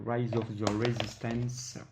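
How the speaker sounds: English title in a Belgian French accent. Real, not acted. Vlogger reading out a game title, French-accented English. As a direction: read the English with a heavy francophone accent. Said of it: "Désolé pour mon accent anglais".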